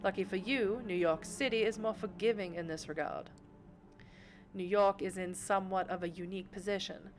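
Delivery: lightly voiced genteel mentor to a young vampire; a hint of a refined patron's voice; elegant vampire patron. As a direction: instruct your protégé, poised and measured. Voices the patron Sophie in game.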